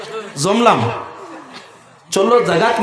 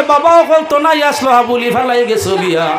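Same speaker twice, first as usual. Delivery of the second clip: mock scream. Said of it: "বেটিয়ে চিৎকার দিয়ে আর কয়".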